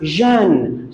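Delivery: "zhun" with a voiced ZH; exception sound. Shown as a demonstration. Teacher isolates T I O N ending, exception sound. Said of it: "T I O N is pronounced".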